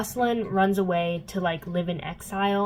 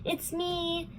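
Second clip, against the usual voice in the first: much higher, slow, sing-song "This is Jace"; cheesy villain greeting; 11 semitones higher, slower than usual. Retold or imitated. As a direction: play the villain as a smug, chirpy host. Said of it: "Valentine shows up and he's like".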